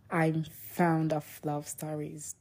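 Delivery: embarrassed whisper, voice dropped right down; shy whisper. Real, not acted. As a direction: murmur it as a shy little secret. Shy confession about loving romance.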